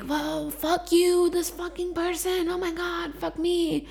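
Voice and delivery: mock angry outburst. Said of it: "I yelled, I screamed".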